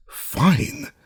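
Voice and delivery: single high-pitched word; one word, pitched well up; a high, brief character reply; terse old man's reply. A narrator's reading. Taciturn Unc Nunky's one-word reply.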